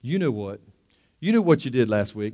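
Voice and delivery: low, soft accusation; enemy's insinuation. Acted. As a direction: slip the reminder in quietly, like a tempter. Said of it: "the enemy comes up to you".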